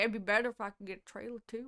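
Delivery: put-on rural southern US accent. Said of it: "we do that all the time".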